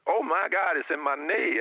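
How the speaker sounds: lightly acted amazed outburst; retold amazed cry. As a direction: mimic his startled exclamation, starting high. Voices healed man's amazed cry.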